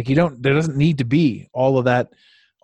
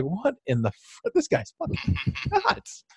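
laughing disbelief; 13 semitones higher, 4 dB quieter than usual. Retold or imitated. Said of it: "And I was like".

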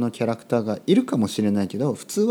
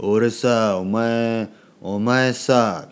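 rough speech; much slower than usual. Shown as a demonstration. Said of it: "みたいなね".

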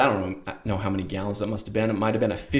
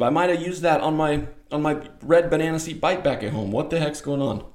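incredulous; 6 semitones higher than usual. Retold or imitated. Kid's silent outrage at dad.

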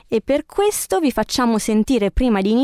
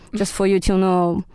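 whispering; 2 semitones lower than usual. Pretend. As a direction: breathe it like a secret. Whispered aside to guests.

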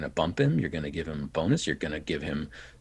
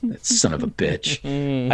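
grudging annoyance; 4 dB louder, slower than usual. Retold or imitated. Producers grudgingly thanking the casting director, mock annoyed. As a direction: grumble it out, annoyed but beaten. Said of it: "was kinda like".

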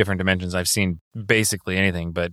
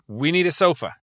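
command phrase; 7 semitones higher than usual. Acted. Repeats the command after it fails.

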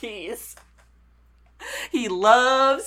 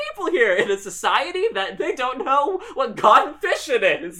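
raised, incredulous comic rant; mock mad; 6 semitones higher than usual. Producer rants about island society, mad. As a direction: splutter through it as if outraged. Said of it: "he got real mad at that".

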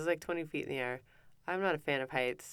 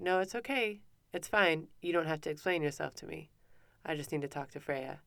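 reassuring. Retold or imitated. Mom to kids explaining themselves, lightly acted reassurance. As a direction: retell a parent soothing children.

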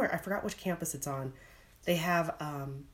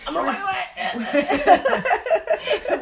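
far from mic; 13 semitones higher, 10 dB louder, much slower than usual. Real, not acted. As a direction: voice moving away from mic. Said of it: "it would sound like I was crawling over".

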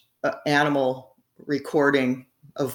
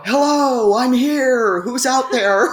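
high and loud, imitating a rooster speaking; mock rooster voice; 8 semitones higher, 5 dB louder, slower than usual. Imitating the rooster's crow as words, high and loud. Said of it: "I got something like".

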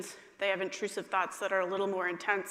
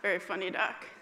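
mock laughing parent. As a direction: fake laugh, then dry quip. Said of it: "giggle, and say".

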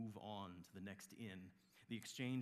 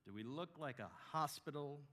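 higher, louder scornful retort; indignant innkeeper; 6 semitones higher, 5 dB louder than usual. Acted. Innkeeper rebuffing a traveler with a pregnant wife, indignant. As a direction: throw the question back with scorn.

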